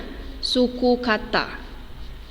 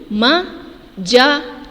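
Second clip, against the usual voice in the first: Majalah drawn out very slowly; teacher modelling Majalah slowly; very slow model word; much slower than usual. Shown as a demonstration. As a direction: stretch out Majalah. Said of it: "bagaimana anak-anak ustazah mengucapkan ini".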